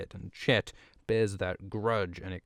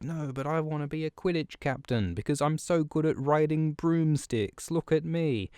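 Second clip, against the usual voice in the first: boastful Jon; 6 semitones higher than usual. Retold or imitated. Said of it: "Jon's like".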